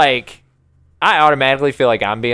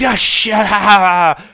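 mocking teens; 5 semitones higher, much slower than usual. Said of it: "being like".

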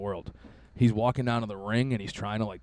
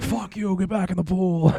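much higher mock yell; imitating naked guys fighting; mock scream; 9 semitones higher than usual. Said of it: "screaming at each other".

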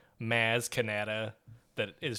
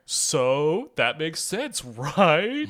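Jar Jar voice; 2 semitones higher, 4 dB louder, much slower than usual. Retold or imitated. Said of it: "did Jar Jar being like".

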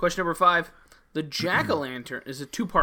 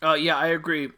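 self-conscious chewing mid-sentence; mouth full. Real, not acted. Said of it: "self-conscious right now chewing".

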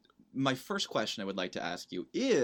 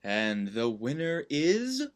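suspenseful awards presenter; 3 semitones higher, slower than usual. Acted. Co-host mimics winner announcement.

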